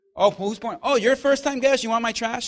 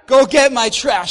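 quoting her; 11 dB louder than usual. Retold or imitated. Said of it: "she says".

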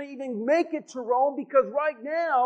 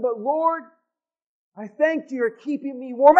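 Paul praying thankfully; 3 dB louder than usual. Retold or imitated. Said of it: "he's saying".

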